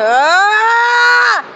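rising, drawn-out "ah" scream; imitated scream. Friend shows how he screamed earlier, imitated yell. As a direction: demonstrate your scream, high and held long. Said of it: "I went".

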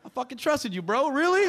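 mock fury at a buddy's betrayal; betrayed friend. Buddy learns his friend is Mexican, outraged yell.

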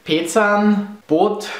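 Pezan, Boot in German sounds; totally German. Shown as a demonstration. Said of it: "I'll pronounce them totally German".

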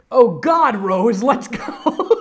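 loud high squeal, last word drawn out; hammed-up cry to a friend; excited cry. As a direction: cry it out with breathless laughter behind it. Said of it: "Madison cried".

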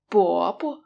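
"bo bo" with a stressed first syllable and a short, light second; uncle, "bo bo" with light second syllable; neutral tone bobo. Shown as a demonstration. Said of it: "the second syllable is also a neutral tone".

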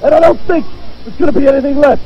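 screaming, furious promo; wrestling promo. Acted. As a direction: roar every threat at the rival.

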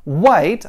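"White" with a clear I glide, wajt; English white. Shown as a demonstration. Teacher modelling the word for learners, clear and firm. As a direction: say "White" with the ah-ee diphthong, no h. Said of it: "Esse é o som que queremos".

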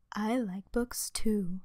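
slow, hushed whisper; soft librarian whisper. A narrator's reading. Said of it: "whispered Leonora Lapsiter".

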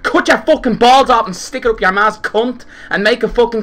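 loud, high furious threats; raging gamer. Real, not acted. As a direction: roar threats at the enemy team. Raging at enemy team.

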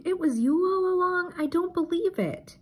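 high, stunned disbelief; shocked exclamation. A narrator's reading. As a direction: gasp it out, can't believe it. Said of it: "Farmer Joe exclaimed".

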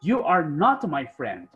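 "You are not my friend" said slowly, each word clear; slow model sentence. Shown as a demonstration. Teacher slowly modelling a sentence for students. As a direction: spell it out slowly for learners. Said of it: "Si yo quiero decir, por ejemplo".

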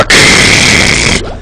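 long voiceless "kheu" of admiration; appreciative throat rasp. Pretend. Streamer admiring their own wise words, savouring rasp.

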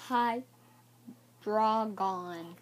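HY and DRAGON said as separate, drawn-out parts; sounding out. Shown as a demonstration. Child showing viewers a card's name, sounding it out. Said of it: "he's pronounced".

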